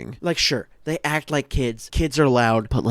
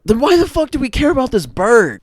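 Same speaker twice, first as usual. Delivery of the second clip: higher, louder exasperated outburst; 12 semitones higher, 7 dB louder than usual. Real, not acted. Fed up with the pointless bird subplot, exasperated outburst. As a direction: throw up your hands in frustration.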